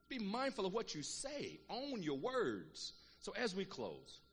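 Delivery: very slow, each word weighed; slow, weighty. Acted. Preacher closing the point to the congregation, very slow and weighty. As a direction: let every word land.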